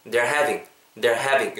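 "They're having" linked, with a buzzed V; model pronunciation. Shown as a demonstration. Teacher models for learners, "They're having" linked with clear V. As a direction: say "They're" as one syllable, then "having" with a true V. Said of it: "이렇게 발음해 주시면 좋을 것 같아요".

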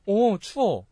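abrupt complaint. Shown as a demonstration. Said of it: "있는데 갑자기".

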